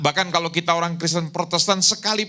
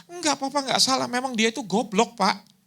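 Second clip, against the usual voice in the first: higher-pitched imitated child voice; eldest son; 10 semitones higher than usual. Eldest son reassuring his apologetic father, high imitated child voice. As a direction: answer Dad in a mimicked kid's voice. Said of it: "Anak yang sulung bilang gini".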